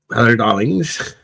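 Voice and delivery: lightly voiced shopkeeper's hello darlings; a drawn-out, slow sing-song greeting; hammed-up greeting. Streamer mimicking the shopkeeper for chat, sing-song. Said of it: "Is that where it come from".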